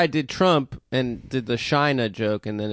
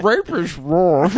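slow earnest declaration; much slower than usual. Pretend. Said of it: "be like".

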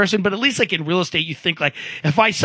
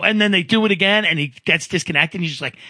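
ordinary talk

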